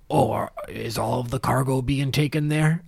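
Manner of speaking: lightly voiced half-orc asking a question; a modest attempt at a half-orc voice. Half-orc porter asks the ticket man about cargo, mildly put-on voice. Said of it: "in his best half-orc voice that he can muster".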